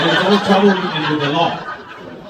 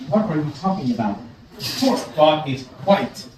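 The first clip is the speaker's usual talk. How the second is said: lightly put-on English accent, measured and composed; 2 semitones lower, 3 dB quieter than usual. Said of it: "a white guy with a perfect English accent".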